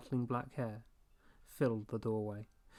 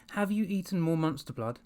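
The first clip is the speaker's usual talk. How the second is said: louder, higher demand; 6 semitones higher, 4 dB louder than usual. A narrator's reading. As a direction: press the dog hard for the truth. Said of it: "Evan demanded".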